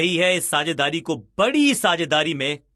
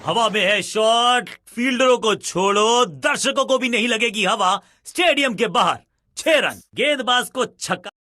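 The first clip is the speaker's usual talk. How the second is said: excited cricket commentary; 4 semitones higher than usual. Acted. Commentary on a six.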